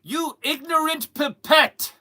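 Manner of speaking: slow, high, loud theatrical scolding; grandly offended, drawn-out words; mock outrage. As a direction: hurl a hammed-up haughty insult. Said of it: "you can go".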